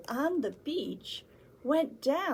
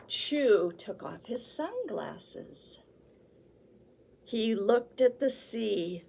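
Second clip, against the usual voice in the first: put-on reading to children. Librarian reading a picture book to children, building. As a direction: read it aloud to the little ones, rising.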